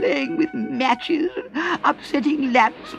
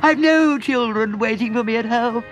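high, slow desperate begging Toad; pleading cry; 8 semitones higher, slower than usual. A narrator's reading. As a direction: beg for rescue, much higher and slow.

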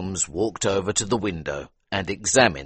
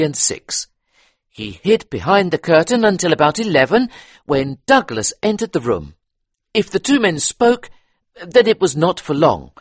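higher, louder eager police inspector; 12 semitones higher, 7 dB louder than usual. A narrator's reading. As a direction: talk it through like a keen detective. Inspector explains theory.

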